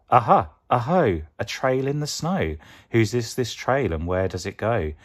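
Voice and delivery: loud, high "Aha! Aho!" then eager questions; bursting with discovery; excited Gruffalo child. Acted. Child finds a trail in the snow, loud and excited.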